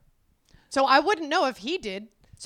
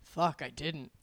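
thinking to herself; 8 semitones lower, 8 dB quieter, slower than usual. Retold or imitated. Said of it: "in my head".

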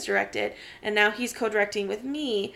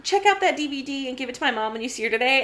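higher, fast niece voice; niece asking; 3 semitones higher than usual. Retold or imitated. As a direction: rattle off a request like the niece. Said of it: "she goes".

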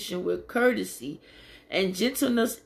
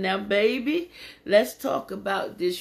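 grandma voice. Shown as a demonstration. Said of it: "put your grandma voice in".

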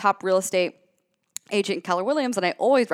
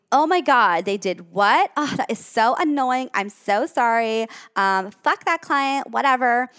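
louder, higher coach who freaks out along with the client; overreacting bad coach; 3 semitones higher, 3 dB louder than usual. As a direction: overreact as if the drama were yours. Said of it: "A bad coach would be".

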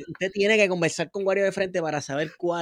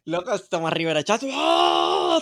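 laughing; 3 dB louder, slower than usual. Real, not acted. Mocking politician's angry tweet.

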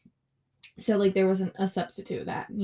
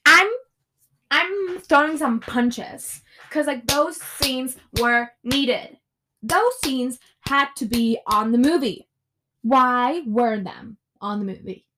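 angry; 3 semitones higher, 5 dB louder than usual. Real, not acted. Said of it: "I'm so angry".

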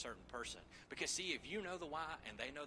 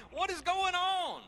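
high, drawn-out mock scream; desperate yell; 12 dB louder, slower than usual. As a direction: wail it loud and slow in hammed-up panic. Acts panicked cry in battle.

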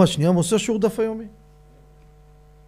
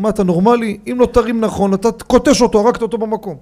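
raised voice, alarmed and scolding; alarmed shout; 3 semitones higher, 5 dB louder than usual. Retold or imitated. Bystander yelling at rescuers, alarmed and loud. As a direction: shout the warning over the crowd.

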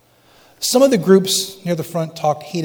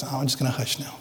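quiet surrender; 3 semitones lower, 12 dB quieter than usual. Shown as a demonstration. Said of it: "respond with".

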